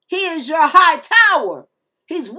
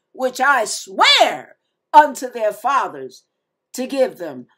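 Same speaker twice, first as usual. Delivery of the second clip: fast, emphatic Bible reading; scripture reading; 4 dB louder than usual. Acted. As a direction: read the scripture with conviction. Continues reading Joshua chapter one.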